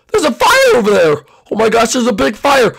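alarmed call, lightly hammed up; play-acted alarm. Islander spotting a distant fire at night, alarmed.

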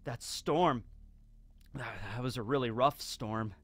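weird trance, soft and halting; Muchigoro. Retold or imitated. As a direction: drift through it haltingly, breaking into a whimper. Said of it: "begins to talk in, like, a weird trance".

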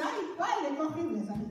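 lightly voiced groan of dismay at your own photo; a touch of mock horror, said in passing; half-hearted "Ay, padre" of someone seeing an ugly photo. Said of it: "Todo el mundo dice".

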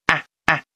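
stressed vowel "啊" kept full, said twice; vokal tidak berubah. Shown as a demonstration. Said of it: "元音还是发".

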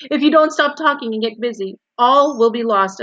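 desperate. A narrator's reading. Wilbur begs the rat to get busy, desperate. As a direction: warn him with rising urgency. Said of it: "said Wilbur in desperation".

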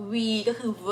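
name the letter "V", then give its buzzed "vuh" sound; "V" sounded out as a lip-on-teeth buzz; V sound demo. Shown as a demonstration. Teaching viewers pronunciation, the "V" sound isolated and demonstrated.

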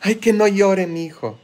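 mimicked doting parent. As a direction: imitate an overprotective mother a little. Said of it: "Y cuando era niño".

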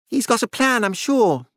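high, shaky nervous edge; barely holding it together; ragged, unsteady. A narrator's reading. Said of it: "His voice was ragged and unsteady".

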